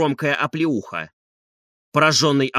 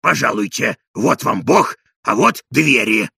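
put-on old servant Zakhar; 4 semitones lower, 4 dB louder, slower than usual. A narrator's reading. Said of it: "говорил Захар".

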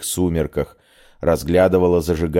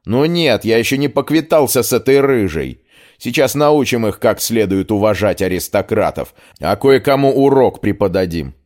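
angry threat; 4 semitones higher, 3 dB louder than usual. Acted. Aristocrat threatens girls.

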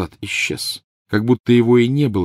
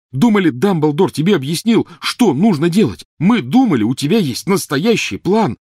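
high, loud accusing yell; angry shouting; 10 semitones higher, 6 dB louder than usual. A narrator's reading. Ron accusing Harry, loud angry yell. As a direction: scream the accusation. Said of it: "крикнул Рон".

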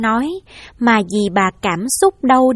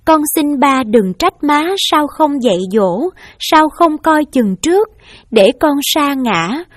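raised, pleading voice, a touch of crying; tearful plea; 3 semitones higher than usual. Acted. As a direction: kneel and beg your father's forgiveness. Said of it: "và khóc và nói".

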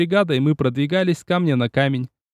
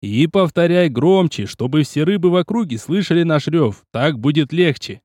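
barked order. Acted. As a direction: roar it so the fish hear. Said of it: "гаркнул я".

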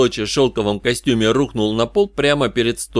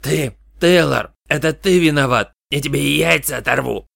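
higher-pitched, strained threat; angry accusation; 4 semitones higher than usual. A narrator's reading. Beaten colleague blames the detective, angry threat. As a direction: accuse him, pitch pushed up. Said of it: "на меня нацелился трясущийся палец".

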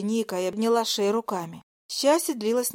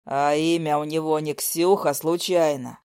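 put-on jealous boyfriend; 6 semitones lower than usual.

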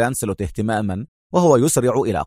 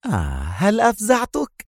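provoking tease; 9 semitones higher than usual. A narrator's reading. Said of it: "ابتسم على نحو مستفز".

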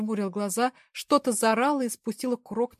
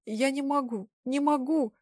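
mild tearful whimper, slightly higher; whimpering plea; 5 semitones higher, slower than usual. Acted. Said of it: "захныкала".

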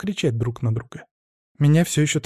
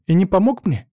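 indignant; 5 semitones higher, 3 dB louder than usual. Acted. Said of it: "захлебнулась от возмущения я".

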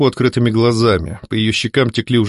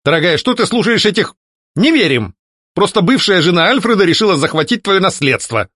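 a touch of anger, higher; angry outburst; 7 semitones higher than usual. A narrator's reading. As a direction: blurt it out angrily. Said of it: "гневно выпалил барон".

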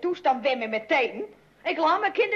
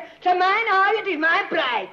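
indignant; 2 semitones higher, 4 dB louder than usual. Acted. Maid quarrels with Rob over leeks.

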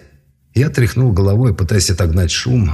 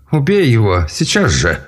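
angry command; 4 semitones higher than usual. Acted. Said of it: "закричал Эльрах".

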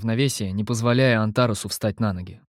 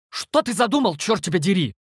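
alarmed; 8 semitones higher than usual. A narrator's reading. Panicked hero confronts Antares.

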